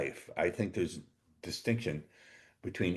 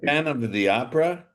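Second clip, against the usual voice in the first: dramatic announcement; 8 semitones higher, 7 dB louder than usual. Acted. Host hams the show title.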